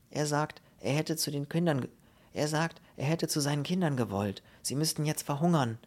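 lightly voiced policeman relaying a message. Policeman reports the old man's words to the officer, dutiful relay. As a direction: pass on the injured man's words in a slightly lifted voice.

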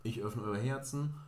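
slow, solemn catchphrase; a lightly grand signature line; mock slogan. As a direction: intone it like a surgeon's motto. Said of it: "mein Signature-Spruch".

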